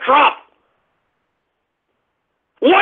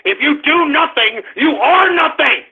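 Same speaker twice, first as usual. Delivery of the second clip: firm raised insistence, second half stretched; rising anger. Real, not acted. Host repeats his maxim to listeners, insistent and angry. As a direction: drive the point home, short of yelling.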